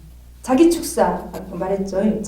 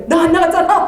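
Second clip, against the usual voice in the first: higher, louder accusation; accusing shout; 7 semitones higher, 8 dB louder than usual. Retold or imitated. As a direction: catch the spirit lying. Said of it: "막 이런 식으로 하거든요".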